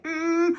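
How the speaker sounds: high, tight hummed "mm"; overdone M hum. Shown as a demonstration. Teacher showing learners what not to do, overdone hum. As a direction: overdo the "mm" with pressed lips. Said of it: "I tend to overdo it".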